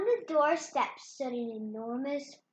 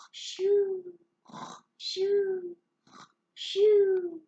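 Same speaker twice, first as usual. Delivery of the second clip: whispered shooing; hushed shoo; 7 semitones higher, 4 dB louder, much slower than usual. Acted. Giantess shooing Jack away, whispered.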